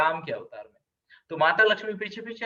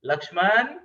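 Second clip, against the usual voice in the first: stern call; 3 dB louder than usual. Retold or imitated. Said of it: "भैया ऐसे बोलते".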